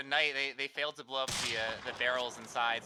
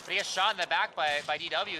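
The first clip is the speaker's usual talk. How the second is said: excited; 5 semitones higher, 7 dB louder than usual. Real, not acted. Caster calling the kill.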